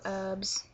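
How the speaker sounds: "herbs" as "erbs"; silent H. Shown as a demonstration. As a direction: leave the H off "herbs". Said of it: "we don't say the H".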